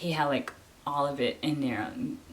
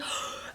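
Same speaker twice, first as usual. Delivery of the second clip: sharp acted gasp; quick retold gasp of excitement; excited gasp; 6 dB quieter than usual. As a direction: gasp as if amazed. Acting out her excited reaction.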